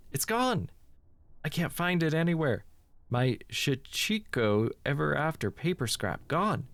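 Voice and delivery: high alarmed cry of "gone"; a sudden jolt of panic at the loss; shocked discovery. Acted. Mayu finds her charm missing, reading it with high alarm.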